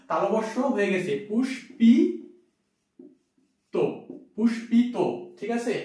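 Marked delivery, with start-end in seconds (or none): 1.3-4.9 পুষ্পিত as pushpito, the s turned to sh; teacher demo word. Shown as a demonstration. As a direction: show পুষ্পিত with sh and o. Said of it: "দন্তের সটা কি হয়ে গেছে আমার?".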